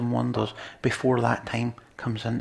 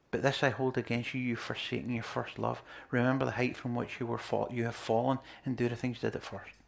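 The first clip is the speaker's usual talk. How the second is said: softly read scripture; 9 dB quieter than usual. Acted. Reading scripture quietly.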